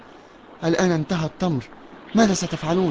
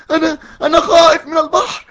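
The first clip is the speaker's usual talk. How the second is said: much higher and louder, tearful, dragging the cries slowly; panicked crying for help; 11 semitones higher, 7 dB louder than usual. Acted. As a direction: scream for rescue, sure he will drown. Can't swim, calls for help. (صراخ باكٍ مذعور طلبا للنجدة)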